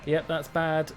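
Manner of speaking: usual speaking voice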